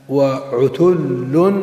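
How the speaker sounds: وعتل spelled out slowly with a lift on the last syllable; slowly drawn out. Shown as a demonstration. Teacher slowly sounding out وعتل for students. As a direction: stretch وعتل very slowly, every sound long, rising at the end. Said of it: "teacher drawing out example word".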